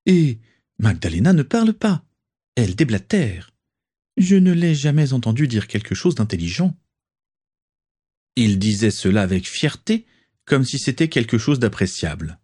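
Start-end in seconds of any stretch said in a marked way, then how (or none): 0.1-6.8 voix plus aiguë, ton dédaigneux; Nott méprisant. Acted. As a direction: se moquer de sa femme avec mépris. Nott, railleur et hautain. (Nott raille sa femme devant ses amis, hautain)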